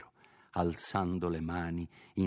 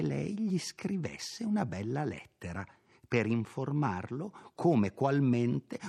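higher, confident servant advising; earnest housekeeper; 4 semitones higher than usual. Acted. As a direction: lay out her plan as if obvious. Perpetua gives her advice.

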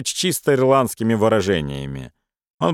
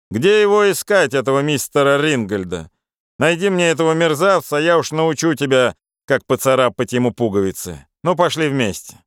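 brash Irish friend; 2 semitones higher than usual. Acted. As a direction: egg him on with swagger. Charles heads out.

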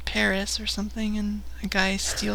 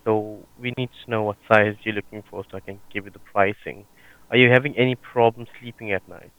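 call center agent; 11 semitones lower, 6 dB louder, faster than usual. Acted. Prank call, plays sales agent.

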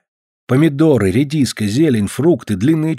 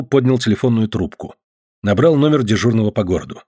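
normal talking voice

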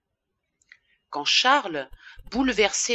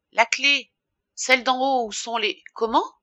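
higher, louder, insistent request; urgent demand; 6 semitones higher, 4 dB louder than usual. A narrator's reading. Urgent demand through the window. (demande pressante)

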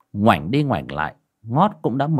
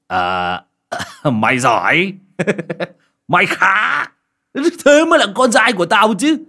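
higher, louder, laughing proud father; father laughing proudly at his son's news; laughing praise; 9 semitones higher, 6 dB louder than usual. Acted. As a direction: cackle with pride at your son. Father delighted, claps hands.

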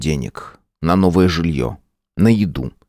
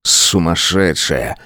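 grumbling; much slower than usual. Acted. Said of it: "проворчал он".

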